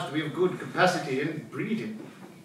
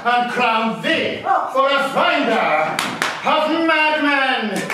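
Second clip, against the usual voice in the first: climbing higher and louder, slowing; gleeful rise; 8 semitones higher, 4 dB louder, slower than usual. Acted. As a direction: savour each word, building glee. Gleeful plotting, rising.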